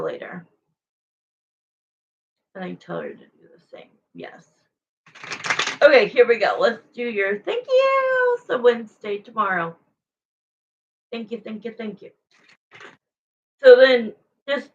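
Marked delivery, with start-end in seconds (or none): 2.5-4.5 quick unvoiced whisper. Real, not acted. Streamer whispering an aside to viewers, fast whisper. 11.1-12.1 soft repeated thanks. Real, not acted. Softly thanking donors.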